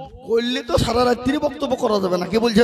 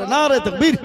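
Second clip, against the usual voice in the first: raised-voice call to the congregation; first takbir call; 4 semitones higher, 9 dB louder than usual. Real, not acted. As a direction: lead the crowd in takbir. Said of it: "আরো জোরে".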